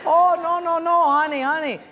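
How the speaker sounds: high, loud flustered pleading; husband calming his wife at church, flustered and loud. Retold or imitated. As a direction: hurry to calm her down. Husband explaining to angry wife.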